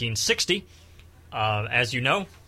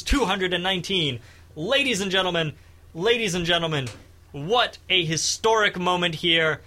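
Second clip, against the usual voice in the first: excited election night announcer; breathless broadcast excitement; frantic mock sports commentary; 3 semitones higher than usual.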